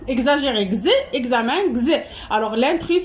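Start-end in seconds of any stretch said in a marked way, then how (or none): 0.6-0.9 voiced "gz" sound for the letter X. Shown as a demonstration. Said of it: "ça se prononce". 1.7-1.8 voiced "gz" sound for the letter X. Shown as a demonstration. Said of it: "ça se prononce".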